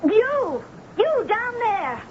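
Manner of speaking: high, outraged yelling down from the window; furious tirade. Acted. Novelist yelling down at the visitor, high and outraged. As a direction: berate him like a desecrator of art.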